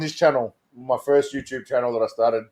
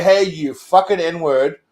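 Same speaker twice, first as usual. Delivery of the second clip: slow, spat-out mock insult; mock hostile slur, slowed right down; much slower than usual. Shown as a demonstration. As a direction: drag the insult out slowly with contempt. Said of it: "But if I say".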